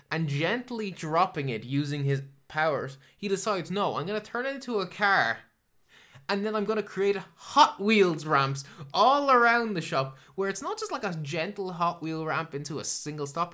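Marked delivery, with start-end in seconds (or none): 3.7-13.5 mock Hal voice. Mocking Hal's reasoning.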